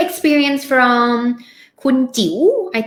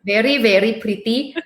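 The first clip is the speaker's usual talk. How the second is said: amateur imitation of an Indian accent; terrible Indian accent. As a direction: put on a light, clumsy Indian accent. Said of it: "sorry for my terrible Indian accent".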